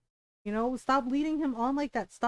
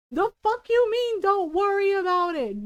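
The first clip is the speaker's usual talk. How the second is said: incredulous; 5 semitones higher, 5 dB louder than usual. Real, not acted. Mocking Varric's dismissal.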